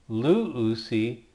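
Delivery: teacher modelling "luusi"; careful Greek model word; Greek verb form demo. Shown as a demonstration. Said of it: "and also".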